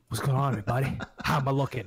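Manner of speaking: lightly voiced YouTuber greeting; Hodge twins. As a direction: put on a slight twin-host greeting. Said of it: "be the Hodge twins".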